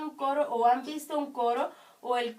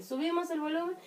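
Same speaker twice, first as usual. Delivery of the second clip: raised pitch with a rising end; higher demo of volume up; turning it up; 5 semitones higher, much faster than usual. Shown as a demonstration. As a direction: go up as if turning up the sound.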